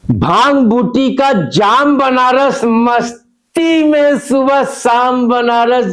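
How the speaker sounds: rhythmic, swelling verse about a city; poetic recitation. Acted. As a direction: recite it like a stage poem. Recited poem about Banaras.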